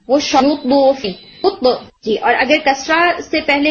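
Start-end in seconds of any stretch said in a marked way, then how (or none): 0.4-1.7 نوت بو with the ت bounced from rounded lips; نوت بو with a rounded ت bounce; qalqala after damma. Shown as a demonstration. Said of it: "اسی formation سے آپ نے کلکلہ کیا".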